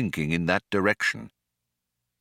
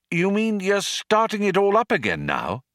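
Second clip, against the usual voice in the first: struggling for words; 10 semitones higher than usual. A narrator's reading. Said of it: "trying to form the words".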